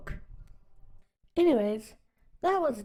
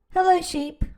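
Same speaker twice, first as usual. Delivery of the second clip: cheerful duck greeting; 7 semitones higher, 5 dB louder than usual. Acted. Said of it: "said Duck".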